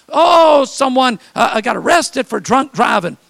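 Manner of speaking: shocked church busybody; mock dismay. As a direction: gasp out the scandal like a gossip. Mock gossip about church troubles.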